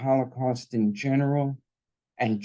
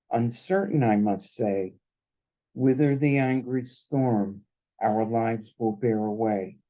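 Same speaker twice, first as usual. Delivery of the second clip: a solemn reading with lifting lines about fighting back; poem recitation. Acted. Son reads mother's poem aloud.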